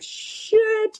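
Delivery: a sudden high yelp of alarm; panicked curse. Retold or imitated. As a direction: blurt it out as panic hits. Panic on live prime time.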